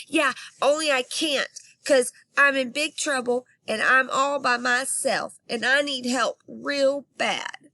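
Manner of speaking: high, loud whiny plea; upset kid. Acted. Girl telling operator she can't calm down, high and pleading. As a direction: plead like she's about to burst.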